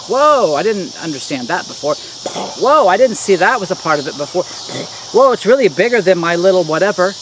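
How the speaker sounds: acted wide-eyed "whoa" of discovery; mock being struck by something bigger; amazed realization. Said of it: "You should constantly be going like this".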